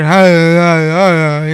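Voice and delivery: loud, calling hey through a door; dad calling out. Retold or imitated. Dad calling to his son through the door, loud and insistent. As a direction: call out to your son in the next room.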